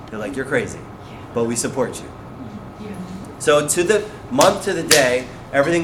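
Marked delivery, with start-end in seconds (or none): 0.4-2.1 low, soft mock resignation; resigned support. Bosses answering his plan, soft resigned support. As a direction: imitate giving in quietly.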